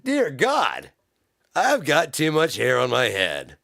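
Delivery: a touch of mock despair; exasperated customer. Customer lamenting too much hair, mildly exasperated.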